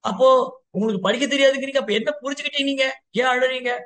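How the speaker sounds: high-pitched, pressing questions; acted puzzled inquiry, pitched well up; eager questioning. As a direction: press for the answer with keen curiosity. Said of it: "ஆவலா கேக்குறாரு".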